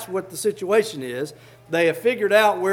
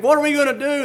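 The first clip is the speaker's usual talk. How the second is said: higher, louder frightened servant; mock panic; 8 semitones higher, 5 dB louder, faster than usual. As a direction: squeak it out like knocking knees. Servant's knees knocking, panicking.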